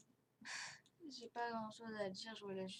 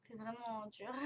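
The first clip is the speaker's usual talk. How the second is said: jaw held nearly shut by elastics; talking with braces elastics; 4 dB louder than usual. Real, not acted. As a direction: speak through a barely open mouth. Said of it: "on m'a mis des élastiques et du coup, c'est pas facile pour moi de parler".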